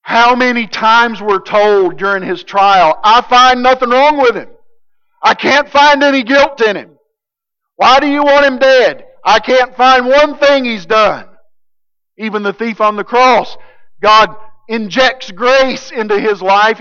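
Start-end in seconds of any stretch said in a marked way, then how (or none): 3.0-11.3 Pilate's protest. Acted. Pilate voiced at the trial.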